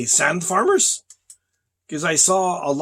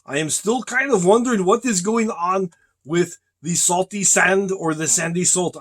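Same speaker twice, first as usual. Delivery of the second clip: ordinary delivery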